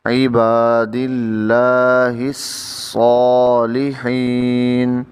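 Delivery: careful, drawn-out recitation; slow Quran recitation. Shown as a demonstration. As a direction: recite each word slowly and clearly. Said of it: "teacher recites the phrase". (آہستہ تلاوت)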